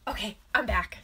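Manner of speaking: breathy whispered return; whispering that she's back. Real, not acted. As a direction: slip back in with a hushed whisper. Returning to camera, hushed.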